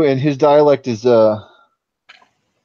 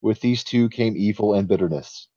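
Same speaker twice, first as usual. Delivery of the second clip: story narration. A narrator's reading. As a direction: read it like an old tale. GM reads the forest legend.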